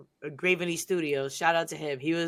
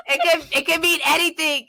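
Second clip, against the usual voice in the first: laughing through words; 10 semitones higher, 5 dB louder than usual. Real, not acted. Laughing, high, far timbre.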